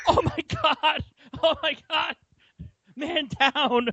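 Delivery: high, strained mock yell; mock screaming. Fallen fan calling out from the couch, high mock scream. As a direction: cry out like a comically injured fan. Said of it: "yelling and screaming".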